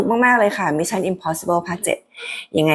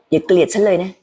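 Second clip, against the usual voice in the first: pleading. Acted. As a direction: gently ask not to be hated. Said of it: "ลองคิดถึงเสียงของ Haley".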